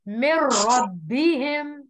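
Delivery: "मिर रब्बिहिम" slow, nūn dropped into a doubled र; idgham without ghunna. Shown as a demonstration. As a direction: roll straight into रब्बिहिम with no nasal. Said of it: "नून को silent रखना है". (नून खामोश, मिर रब्बिहिम बिना गुन्ने के)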